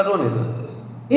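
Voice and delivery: very slow and soft; calm let her cry. Retold or imitated. Preacher retells his calm advice to a mourner, slow and soft. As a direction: say it quietly, letting it be. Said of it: "मैंने कहा".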